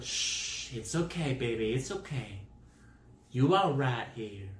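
put-on soothing nurse with a Southern accent; lightly acted Southern comforting. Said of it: "gave her Southern accent".

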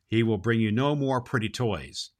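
steady storybook reading voice; story narration. Acted. Santa reading a book chapter to children, gentle story narration. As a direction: read it like a bedtime chapter for kids.

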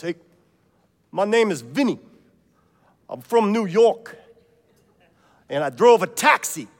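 loud, high New York taxi driver voice; New York cabbie. Acted. Vinny the cabbie bragging to Saint Peter in a loud New York voice. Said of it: "this guy goes".

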